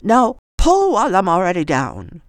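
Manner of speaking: talking with her mouth full. Acted. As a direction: say it round a bite of sandwich. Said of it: "her mouth full".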